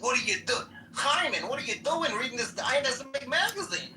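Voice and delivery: high, indignant mock Jewish accent; Jewish joke character. One Jew challenging the other in a joke, hammed-up Jewish accent. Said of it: "here's my Jewish joke".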